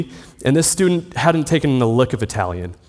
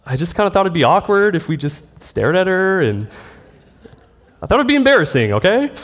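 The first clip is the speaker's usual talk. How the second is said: higher, sheepish self-defence; defensive excuse; 5 semitones higher, faster than usual. Retold or imitated. Caught student defending himself to his roommate, higher and sheepish. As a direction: justify yourself, embarrassed. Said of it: "And I'm like".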